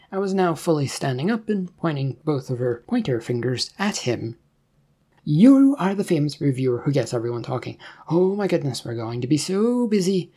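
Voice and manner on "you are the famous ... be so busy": excited. Acted. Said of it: "Daria said this excitedly".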